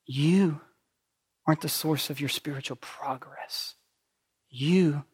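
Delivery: hushed, whispered truth. Real, not acted. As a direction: whisper it to each one. Quiet pointed repeat.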